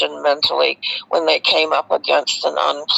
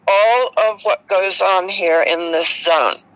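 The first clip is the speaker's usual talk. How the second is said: pompous and official. Retold or imitated. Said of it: "full of himself".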